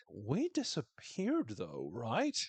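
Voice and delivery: very slow, dazed and spaced out; imitating a tripping Trav; tripping guy. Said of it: "so good as tripping Trav".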